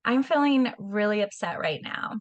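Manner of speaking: even, owning "I'm feeling really upset right now"; calm I statement. Shown as a demonstration. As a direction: say it calmly as your own feeling.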